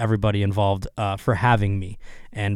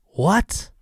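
incredulous what; 8 semitones higher than usual. Real, not acted. Reacting to therapist's dating advice.

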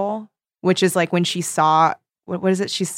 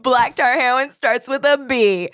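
excited; 7 semitones higher, 6 dB louder than usual. Pretend. Joking clue announcement.

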